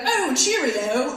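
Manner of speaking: drawn-out Cockney, imitating grandma; mock Cockney. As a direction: ham up a slow Cockney farewell. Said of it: "She has a more Cockney accent".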